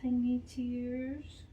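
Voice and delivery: a lightly voiced little girl confiding in her doll; a child telling a secret to her doll; lonely little girl. Child Denise talks to doll.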